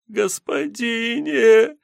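a dragged-out plea, rising high; feeble cry. A narrator's reading. The girl crawling from the bushes, begging the sotnik, drawn out. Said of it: "выползшее из кустов существо".

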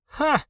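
sharp high bitter «ха»; a short contemptuous laugh; bitter scoff. A narrator's reading. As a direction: spit out a scornful ha.

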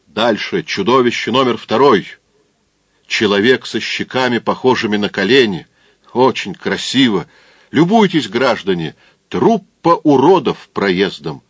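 booming circus ringmaster. Acted. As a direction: bellow like a fairground barker. Presenting freak number two.

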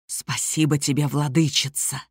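low, hoarse half-animal voice; a hint of a raspy beast crying out. A narrator's reading. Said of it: "выкрикнул хриплым, непослушным голосом". (хриплый нечеловеческий голос)

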